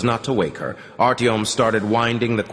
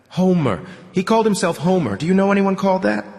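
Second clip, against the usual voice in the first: put-on older man voice; 11 semitones higher, 3 dB louder than usual. Sukhoi voice.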